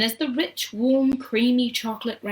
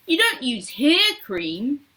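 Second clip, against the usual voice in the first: slow, higher protest; incredulous cry; 5 semitones higher, 4 dB louder, slower than usual. A narrator's reading. Mike challenging Wonka about hair cream, incredulous cry. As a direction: object in drawn-out disbelief. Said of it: "cried Mike T V".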